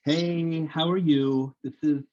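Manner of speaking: polite, formal phone voice; professional phone voice. Retold or imitated. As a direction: put on the professional phone manner. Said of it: "I use my professional voice".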